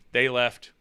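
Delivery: ordinary talk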